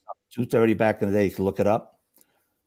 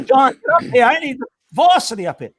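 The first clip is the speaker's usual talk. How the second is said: retold call; 11 semitones higher, 4 dB louder than usual. Captain calls him forward.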